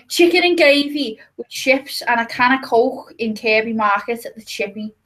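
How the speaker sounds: show-off Liverpool chippy order; Scouse accent, play it up; reeling off a thick Scouse order. Shown as a demonstration. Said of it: "what's the most Scouse thing you can say".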